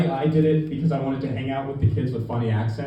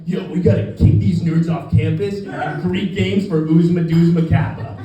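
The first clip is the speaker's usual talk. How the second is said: lightly voiced movie frat bro; rallying frat-guy call, a bit exaggerated; eighties frat guy. Comic mocking an eighties movie frat guy, hammed-up bro voice. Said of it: "like an eighties frat guy in the movies".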